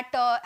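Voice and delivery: "पैट" pulled apart, final ट as its own beat; wrong split syllable. Shown as a demonstration. Teacher showing students the wrong way, word split in two. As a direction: stretch "पैट" into two sounds, पै and ट. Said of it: "ऐसे थोड़ी बोल रहा है".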